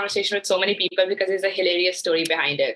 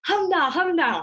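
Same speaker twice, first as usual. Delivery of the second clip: driver teasing, voice pitched higher; driver mock-groaning; 8 semitones higher than usual. Laughing driver teasing his passenger, higher mock groan. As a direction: mockingly sigh the name twice. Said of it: "So he kept saying that".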